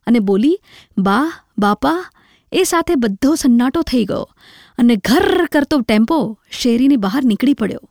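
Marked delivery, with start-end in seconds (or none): 1.0-2.1 slow, broken-hearted call of "બા, બાપા"; tearful child's cry. A narrator's reading. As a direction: drag out "બા, બાપા" slowly as she breaks down crying. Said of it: "બાની કોટે વળી રડી પડી". (રડતાં રડતાં ધીમેથી "બા, બાપા")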